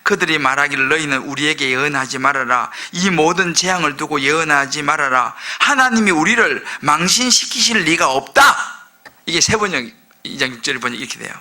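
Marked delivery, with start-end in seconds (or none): 0.0-8.9 lower, measured reading; scripture reading. Acted. Preacher reading Micah's translation, low and measured. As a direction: read the verse aloud, slowing at the end.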